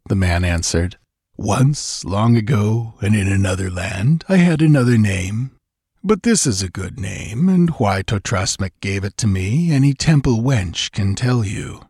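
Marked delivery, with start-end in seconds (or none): 1.4-11.8 lightly voiced smug giant; a hint of a gloating brute; arrogant villain voice. Voices villain Baal Peor.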